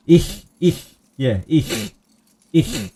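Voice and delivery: "ich" ending in a cat-like hiss. Shown as a demonstration. Streamer drilling the German throat sound, hissing ich. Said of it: "then you hiss like a cat".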